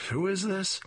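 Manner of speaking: high, puzzled who is this; mother baffled by a strange caller; confused mother. Acted. Mother answering son's phone call, high and confused.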